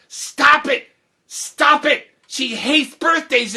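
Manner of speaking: high, loud, urgent pleading; urgent protest. Retold or imitated. Child begging friends to stop the birthday plan, urgent protest.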